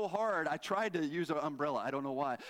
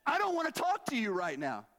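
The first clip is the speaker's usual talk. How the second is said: curt; 4 semitones higher than usual. Retold or imitated. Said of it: "so mad".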